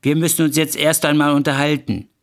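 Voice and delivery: mock screeching. Wife ordering her rival out, acted screeching. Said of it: "worauf Verona sie ankreischte".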